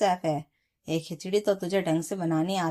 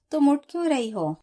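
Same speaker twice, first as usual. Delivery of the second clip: louder, higher worried question; alarmed concern; 8 semitones higher, 6 dB louder than usual. A narrator's reading. Husband to sick wife getting up, alarmed and higher. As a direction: stop her, concerned and quick.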